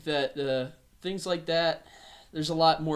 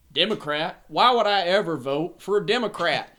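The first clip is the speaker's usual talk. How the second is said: put-on incredulous old man; 4 semitones higher, 8 dB louder than usual. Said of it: "And he's like".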